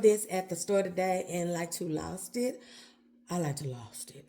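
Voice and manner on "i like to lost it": lower, quieter echo; low, soft repeat. Real, not acted.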